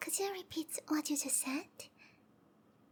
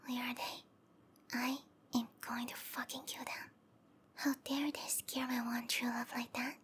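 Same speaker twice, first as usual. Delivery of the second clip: restrained menace; 3 semitones lower than usual. Acted. Lover vows revenge on darling's captors, restrained menace. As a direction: keep the anger low and contained. Threatens the supposed hostage takers.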